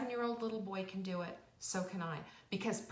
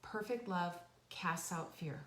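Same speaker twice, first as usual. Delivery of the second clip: gentle coaxing; slower than usual. Retold or imitated. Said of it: "And I said".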